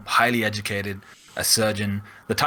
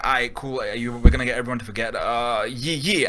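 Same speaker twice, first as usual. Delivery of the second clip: fast, offhand Doctor Strange; careless hurry. Retold or imitated. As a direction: rattle it off like you don't care.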